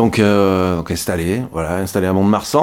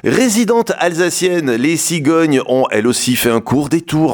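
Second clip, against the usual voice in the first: slow, playful storyteller read; radio portrait narration; 3 semitones higher, slower than usual. A narrator's reading. (narration radio enjouée et posée)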